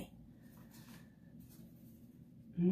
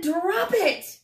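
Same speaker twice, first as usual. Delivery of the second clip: shouted command; 9 semitones higher than usual. Acted. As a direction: yell the signal to drop it. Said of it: "he shouted".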